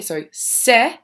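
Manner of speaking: ce-le-brate, each syllable said apart; teacher splitting ce-le-brate into beats; split into syllables. Shown as a demonstration. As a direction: tap out ce, le, brate. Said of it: "where do we break up our three syllables".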